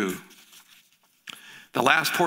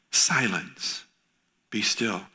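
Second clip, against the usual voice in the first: lower, firm command; commanding rebuke; 4 semitones lower, much slower than usual. Acted. Jesus rebuking the wind and waves, firm low command.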